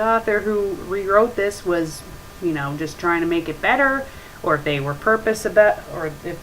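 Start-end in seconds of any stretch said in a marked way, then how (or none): none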